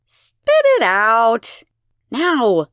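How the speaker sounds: loud, drawn-out growl; growled order. A narrator's reading. Elena orders the silent crowd to speak, growling. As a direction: growl it as a command. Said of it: "she growls".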